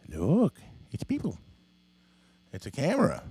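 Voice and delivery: lightly lifted pet-talk voice; coaxing a pet. Real, not acted. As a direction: gently show the cat something new. Coaxing the cat toward camera.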